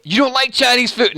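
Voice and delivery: high-pitched imitation of disbelief; mock incredulous. Imitating a viewer shocked about Chinese food, mock incredulous. Voices a chatter's disbelieving question.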